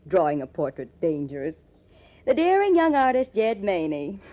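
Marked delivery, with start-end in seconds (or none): 2.3-4.2 mocking tease. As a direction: puff him up to poke fun. Girlfriend teasing his secrecy.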